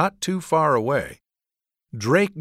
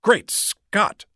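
horrified; 9 semitones higher than usual. A narrator's reading.

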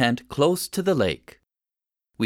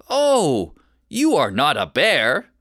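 disappointed; 3 dB louder than usual. Acted. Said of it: "Pam sounded disappointed".

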